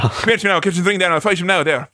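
lightly mocked Irish traveller accent; Mickey. Acting the boxer offering a fight, mock Irish traveller accent. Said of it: "But Mickey, Brad Pitt, uh, says".

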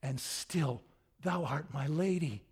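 gentle, unshaken devotion after the outburst; measured, tender knightly declaration; Quixote. Acted. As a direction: answer scorn with calm courtly reverence. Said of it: "But Quixote says".

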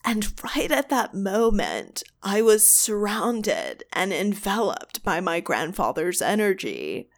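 put-on retelling in a light California accent; dreamy West Coast lilt, lightly done. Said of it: "this accent".

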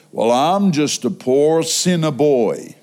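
slow, low mimicry of a self-pitying man; self-deprecating churchgoer. Churchgoer answering the preacher's greeting every Sunday, self-deprecating. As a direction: drag out the mock humble reply.

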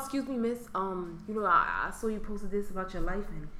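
hint of a singer's intro talk; mock smooth DM guy. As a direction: talk like a greasy DM pickup line. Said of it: "talking about".

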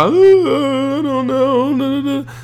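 very high, slow, whiny fake-tearful voice; mock a hammed-up teary goodbye, drawn out high; fake crying woman. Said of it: "they can cry".

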